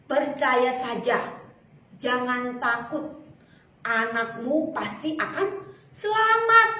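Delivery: slow, steady comforting; slowly calm the father; calm reassurance. Acted. Jesus comforts Yarus. (menghibur dengan tenang dan pelan)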